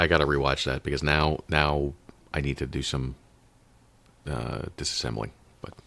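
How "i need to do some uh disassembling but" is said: muffled, speaking into a pillow. Real, not acted. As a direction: talk with your face in a pillow. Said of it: "You sound like you're talking into a pillow".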